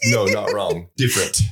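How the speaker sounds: "No, not wrong." said slowly and clearly. Shown as a demonstration. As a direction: spell out "not wrong" with care. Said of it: "you said that too fast".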